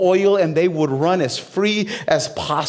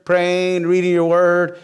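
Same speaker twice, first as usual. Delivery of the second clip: fed-up groan; 3 semitones higher, much slower than usual. Retold or imitated. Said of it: "You'll be like".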